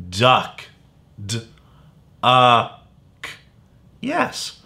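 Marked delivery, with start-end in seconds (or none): 1.2-3.3 "D-, a-k" said as separate sounds; sounding out. Shown as a demonstration. Teacher sounding out the word for young readers. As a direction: break "D-, a-k" into slow separate sounds. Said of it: "I hear the short U".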